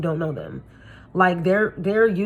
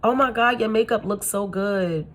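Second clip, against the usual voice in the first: gushing fake praise; 3 semitones higher than usual. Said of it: "people talk like this".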